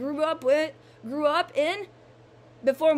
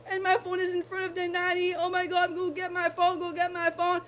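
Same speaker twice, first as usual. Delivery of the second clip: high-pitched, retold elation; enthusiastic happiness; 4 semitones higher than usual. Vlogger reliving the sign of number ninety, excited. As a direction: replay an overjoyed outburst in a raised pitch. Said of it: "running with enthusiasm, enthusiasm and happiness".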